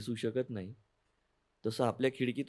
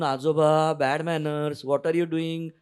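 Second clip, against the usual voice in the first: raised, louder scolding voice; a child telling off her grandpa, higher and louder; 4 semitones higher, 4 dB louder, slower than usual. Acted. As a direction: scold आजोबा like a cross little girl. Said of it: "मी म्हणायची रागवून".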